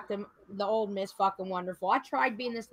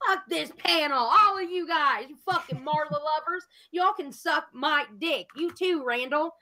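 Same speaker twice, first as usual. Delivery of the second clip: mock rant at the panel; 4 semitones higher than usual. Retelling how she'd curse out the panel, mock yell. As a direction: tell the whole panel off in a mild mock yell. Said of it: "I was like".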